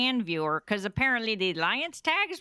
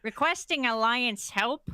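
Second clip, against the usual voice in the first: slow, put-on Chicago accent. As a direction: read it out slowly in a Chicago accent. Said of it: "I'll go into my Chicago accent, actually".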